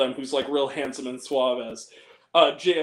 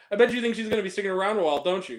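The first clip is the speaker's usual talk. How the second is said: quick aside to camera; 3 semitones higher, much faster than usual. Retold or imitated. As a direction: toss the line straight into the lens, quickly. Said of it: "Looks in the camera".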